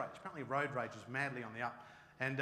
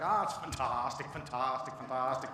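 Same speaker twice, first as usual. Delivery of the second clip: mock Irish accent; 3 semitones lower than usual. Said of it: "the Irish, like".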